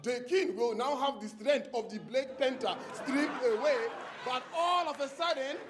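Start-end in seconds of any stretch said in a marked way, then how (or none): 0.0-3.8 imitated film-actor African accent; mock solemn film pronouncement; Forrest Whitaker. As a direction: put on a movie African king voice. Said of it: "imitating Forrest Whitaker".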